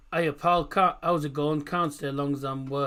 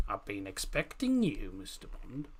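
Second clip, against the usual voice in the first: a lightly put-on lower villain line; half-hearted menacing spy villain; Bond villain voice; 6 semitones lower, 5 dB quieter than usual. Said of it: "Bond accent".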